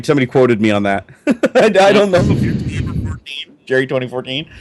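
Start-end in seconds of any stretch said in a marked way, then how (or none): 1.5-4.5 high, laughing through the words; can't stop giggling while reading. Real, not acted. Rereads quote laughing.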